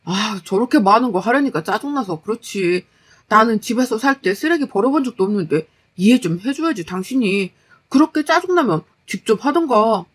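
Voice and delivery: lightly voiced grumbling husband; sulky, spoiled husband. Husband making excuses about recycling, mildly irritated.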